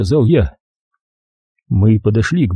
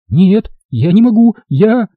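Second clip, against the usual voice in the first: high, louder broken-off refusal; panicked refusal; 10 semitones higher, 4 dB louder than usual. A narrator's reading. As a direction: refuse and break off. (вдова в панике отказывается)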